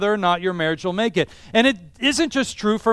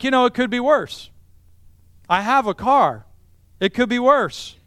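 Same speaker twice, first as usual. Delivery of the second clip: content, grateful; 4 semitones higher than usual. Shown as a demonstration. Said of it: "just think".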